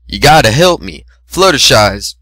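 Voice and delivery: breathless plea; urgent out of breath; panting. Acted. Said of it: "he panted".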